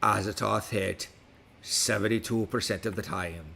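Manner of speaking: put-on West Country pirate accent throughout. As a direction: talk like a pirate all episode. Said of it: "with me speaking like a pirate".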